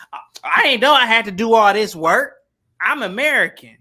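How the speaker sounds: mock outrage at being given chores; lightly acted sassy American woman; indignant objection. Acting Meghan objecting to the work.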